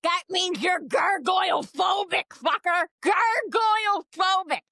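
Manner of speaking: playfully furious, half-joking yell; mock outrage. Ranting at Nick about gargoyle phobia, mock angry shout. Mock rant demanding Nick's attraction.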